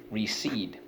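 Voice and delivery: "Recede" whispered, no voice. Shown as a demonstration. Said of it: "teacher whispers the word".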